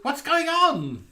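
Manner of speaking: very high, loud, drawn-out Aussie; slow mock-baffled Australian squawk; Australian accent. Ribbing Bethan about Wales, mock Australian accent. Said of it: "We've been doing Australian accents to you all evening".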